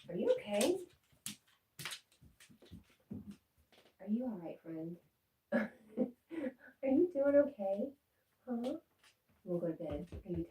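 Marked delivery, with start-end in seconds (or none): 0.1-8.7 high, loud sing-song pet voice; high doggy talk asking if he's okay. Real, not acted. Cooing at the dog.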